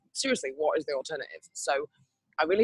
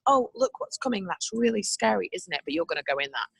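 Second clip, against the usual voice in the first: mock-sweet taunting, higher at first; teasing ride voice; 4 semitones higher than usual. To her listeners, voicing the ride creeping over, lightly teasing. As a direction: tease the rider like it enjoys the fear. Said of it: "it goes".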